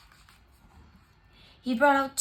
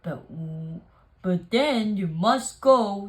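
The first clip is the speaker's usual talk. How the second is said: sniffling; 6 dB louder than usual. Acted. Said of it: "he sniffed".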